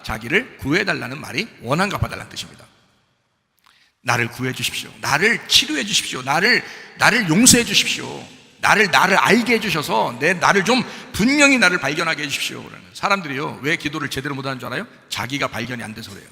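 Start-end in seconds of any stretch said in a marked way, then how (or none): 4.0-12.6 earnest prayer. Acted.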